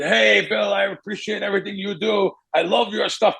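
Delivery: mock European accent, eager compliment. European hustler greeting the speaker at the casino, imitated accent. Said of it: "It's European hustlers".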